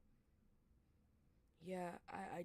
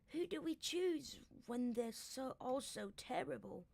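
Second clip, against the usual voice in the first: high character voice; 5 semitones higher than usual. Acted. Playing a dragonet character.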